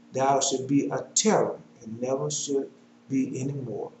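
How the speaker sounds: measured, declamatory Bible reading; scripture reading. Acted. Preacher reads prophecy to the congregation, scripture reading. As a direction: read the verses out firmly.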